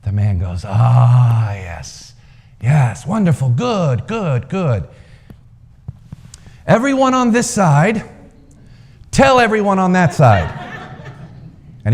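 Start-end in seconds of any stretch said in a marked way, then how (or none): 0.6-10.5 put-on delighted old man. A narrator's reading. Old man delighted by split answer.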